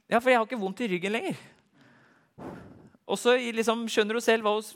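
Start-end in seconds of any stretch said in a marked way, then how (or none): 0.1-1.4 amazed joy. Retold or imitated. Woman amazed, pain gone.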